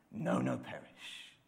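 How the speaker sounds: a soft unvoiced no, no, perish; hushed childlike whisper. Shown as a demonstration. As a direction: breathe it gently, like a toddler's secret. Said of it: "He doesn't say it like Zebulun".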